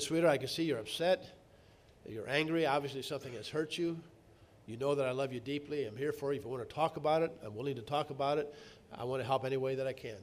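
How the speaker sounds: calm her down tenderly, with no edge; soft answer. Retold or imitated. Husband soothing his angry wife with a soft answer. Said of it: "A soft answer turns away".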